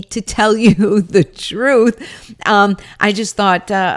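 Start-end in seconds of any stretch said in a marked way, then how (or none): 0.0-2.4 laughing. Real, not acted. Laughs at own Oz joke.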